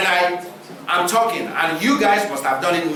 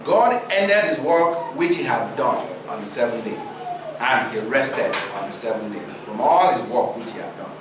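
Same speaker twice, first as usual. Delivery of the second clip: scripture reading; 6 semitones lower than usual. Acted. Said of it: "It's interesting that it says".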